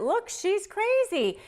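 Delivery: high, slow, put-on accusing whine; hammed-up high slow mockery of an accuser. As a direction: mimic a narcissist pointing the finger, slow and high. Narcissist accusing in court.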